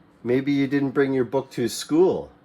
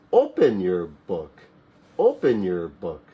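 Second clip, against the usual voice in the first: lower contrasting command; 6 semitones lower than usual. Shown as a demonstration. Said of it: "contrast with close".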